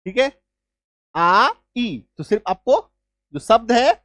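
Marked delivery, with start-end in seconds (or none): 1.1-2.0 आ and ई as two separate long vowels; vowels sounded apart. Shown as a demonstration. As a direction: split the sound into आ, then ई. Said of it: "उसके उच्चारण में आकार की मात्रा और ई". (आ, ई अलग-अलग बोलते हुए)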